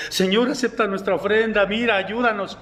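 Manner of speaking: acted-out begging, only lightly tearful; mock tearful plea. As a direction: plead with God in a mild mock wail. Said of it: "venían con lágrimas y venían llorando".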